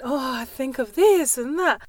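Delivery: slow, mock-airy dithering voice. Coach mocking a rambling talker, slow airy la-di-da. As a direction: lightly parody a rambling talker. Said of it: "no la-di-da".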